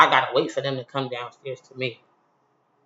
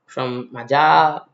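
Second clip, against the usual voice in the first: said a little loudly; 2 semitones lower than usual. Retold or imitated. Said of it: "I said it a little loudly so people can hear me".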